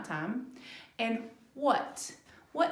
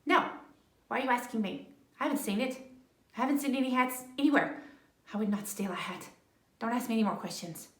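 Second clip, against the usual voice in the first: nervous rabbit; much faster than usual. Acted. Rabbit denying too much.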